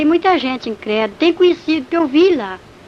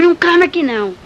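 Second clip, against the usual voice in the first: raised, higher-pitched rebuke; imitating a scolding devil; retold scolding; 5 semitones higher, 4 dB louder than usual. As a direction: cut the prayer off with a sharp order. Devil scolds her for praying.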